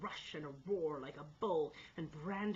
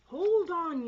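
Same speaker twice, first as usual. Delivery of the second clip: loud call over the crowd; 12 semitones higher, 14 dB louder than usual. A narrator's reading. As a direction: sing out to stop them. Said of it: "I sung out".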